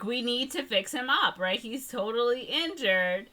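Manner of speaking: high-pitched retold fretting; hammed-up worry; mock concern. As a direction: imitate earnest rescuers, voice up high. Retold characters fretting over baby.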